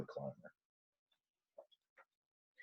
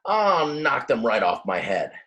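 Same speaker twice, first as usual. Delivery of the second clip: determined; 4 semitones higher, 5 dB louder than usual. Acted. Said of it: "he muttered".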